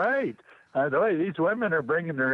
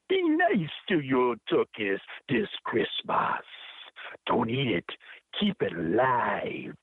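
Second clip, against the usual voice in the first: put-on poem read in a light Jamaican accent. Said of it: "use my best Jamaican accent".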